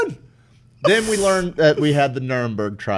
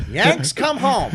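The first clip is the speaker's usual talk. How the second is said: slow proclamation; 8 semitones higher, much slower than usual. Pretend.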